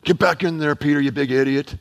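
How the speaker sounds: low-pitched, lightly acted scolding; mock rebuke. Imagined Jesus sending Peter back to the boat, mock rebuke. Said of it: "No rebuke".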